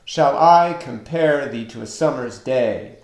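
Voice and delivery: "Shall I compare thee to a summer's day" in measured unstressed-stressed beats; teacher scanning "Shall I compare thee to a summer's day" aloud; metrical stress. Shown as a demonstration. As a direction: lean on "I", "pare", "to", "sum", "day". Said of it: "repeating pattern of unstressed, stressed".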